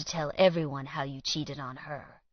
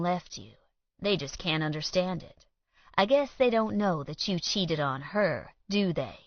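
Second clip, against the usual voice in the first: drawl. Acted. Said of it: "Colt said with a drawl".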